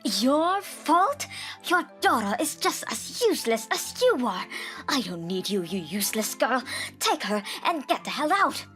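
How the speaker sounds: high, scathing outburst; yelling mother-in-law. A narrator's reading. Mother-in-law throwing out mother and child, yelling. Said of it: "started screaming and yelling".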